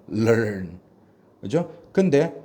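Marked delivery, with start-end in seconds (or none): 0.1-0.8 LEARN as 럴 gliding into a final 언; joined-up learn. Shown as a demonstration. Teacher sums up the spelling sounds for students, joined-up learn. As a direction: say learn with both halves blended. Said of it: "이렇게 한다고 보면 돼요".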